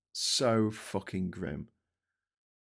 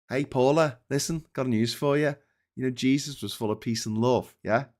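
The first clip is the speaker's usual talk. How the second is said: calling out Paula; 3 semitones higher, 4 dB louder than usual. Real, not acted. Addressing Paula directly.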